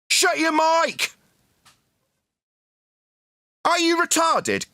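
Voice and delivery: high, drawn-out angry yell; real shouting. Real, not acted. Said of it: "It's only him shouting".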